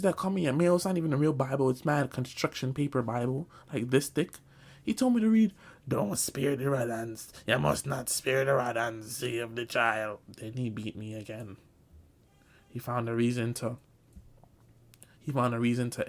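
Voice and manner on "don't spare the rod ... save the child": slow, put-on solemn reading; reading verse. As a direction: read it like a sermon, slowly.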